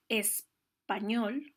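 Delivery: español stretched very slowly, syllable by syllable; spelling it out in sound, very slow; slowly drawn out. Shown as a demonstration. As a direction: draw out español slowly for the class. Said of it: "tiene que separarse en dos sílabas".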